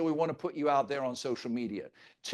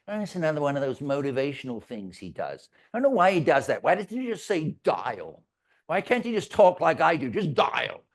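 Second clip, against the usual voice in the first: mock complaint of a skeptical agent; 2 semitones lower than usual. Boss imitating an agent grumbling about his wording. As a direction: whine lightly about the boss's slogan. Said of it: "Why does it say that".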